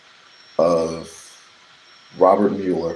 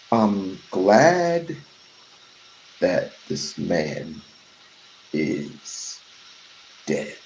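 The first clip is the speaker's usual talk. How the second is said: slow dramatic hush; much slower than usual. Acted. Slow dramatic teaser, fading.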